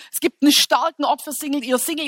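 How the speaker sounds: ordinary talk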